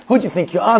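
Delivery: high-pitched mock indignation at normal volume; retold angry screaming. Irritated shopper challenging the man ahead, retold mock anger. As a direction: imitate an outraged challenge, not shouted. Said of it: "he keeps screaming and screaming".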